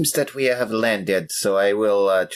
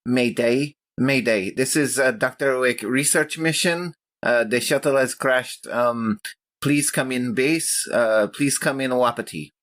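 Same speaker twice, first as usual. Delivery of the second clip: urgent radio distress call, pitched up; crackly military radio; 5 semitones higher than usual. Acted. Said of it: "send out a, a distress call".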